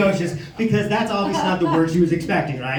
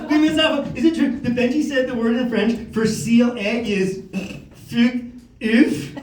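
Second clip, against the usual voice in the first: higher, mock-innocent schoolkid; eager pupil; 5 semitones higher than usual. Pupil in French class testing teacher, eager and high. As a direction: ask eagerly in a raised child voice. Pupil pushing the naughty question.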